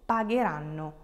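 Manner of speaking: hard G in the "ghe" of "pagheranno"; strong G sound. Shown as a demonstration. Teacher showing learners the inserted H, hard G in "pagheranno". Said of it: "it's a strong G sound".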